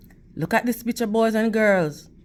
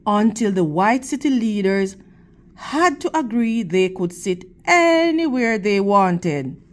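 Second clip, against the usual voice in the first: steady, expressive storybook reading to a class; reading to children; 3 semitones lower than usual. Acted. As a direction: read the picture book to the kids, clear and measured. Teacher reads picture book aloud.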